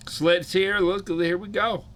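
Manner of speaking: high-pitched welcome, stretched at the end; hyped roll call; excited greeting. Real, not acted. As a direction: announce a friend's arrival, voice lifted high. Calls out another arriving viewer.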